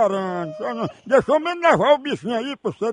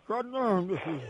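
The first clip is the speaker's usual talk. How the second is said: softer, mock hushing of a child; soothing a baby; 3 semitones lower, 9 dB quieter than usual. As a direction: drop softly, as if to a baby. Feigns hushing a crying baby.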